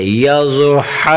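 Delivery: "ح" squeezed from a slightly closed throat; constricted, airy "ح". Shown as a demonstration. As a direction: tighten the throat a little on "ح" in "یا زو ح". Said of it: "گلے کو تھوڑا سا کلوز کر کے ح کی آواز نکالنے".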